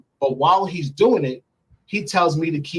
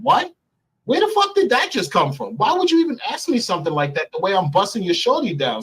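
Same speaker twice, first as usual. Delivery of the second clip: high-pitched outraged retelling; indignant, high mock outrage; retold anger; 7 semitones higher than usual. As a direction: replay the shock and fury, much higher. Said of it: "So I got angry and I start cursing him out".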